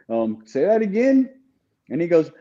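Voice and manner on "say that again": incredulous. Retold or imitated. Retold reply to chaplain's accusation.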